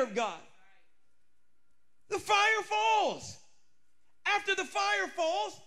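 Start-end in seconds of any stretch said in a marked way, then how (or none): 2.1-5.6 preaching climax. Acted.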